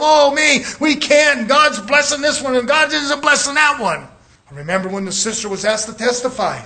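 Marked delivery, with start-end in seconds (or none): 0.0-4.1 lightly voiced mock whine of self-pity. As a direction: mimic a sorry-for-yourself complainer, half-mocking. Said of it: "feeling sorry for yourself".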